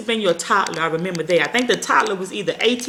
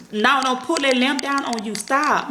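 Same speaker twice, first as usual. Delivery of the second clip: put-on parent warning child; 5 semitones higher, slower than usual. Shown as a demonstration. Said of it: "let them know".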